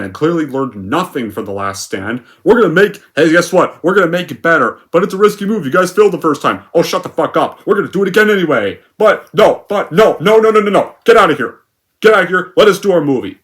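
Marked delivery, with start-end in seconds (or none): 2.4-8.8 loud, higher mock executive voice building to shouts; mocking studio execs. Studio execs brushing off critics, mock shouting. 9.0-12.5 loud, higher "no no no" and "get out of here"; mock shouting. Studio execs yelling critics away, hammed-up shout. 12.6-13.4 loud, higher mock executive voice building to shouts; mocking studio execs. Studio execs brushing off critics, mock shouting.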